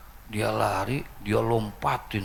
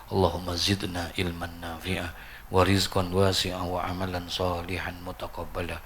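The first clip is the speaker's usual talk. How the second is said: even, measured Arabic supplication; prayer recitation. Real, not acted. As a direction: lead the closing prayer in a steady intoned voice. Leads closing Arabic prayer.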